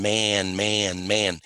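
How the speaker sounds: "man, man, man", each one drawn out evenly; repeated "man". Retold or imitated. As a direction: stretch every "man" in an even chant. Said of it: "When he's saying".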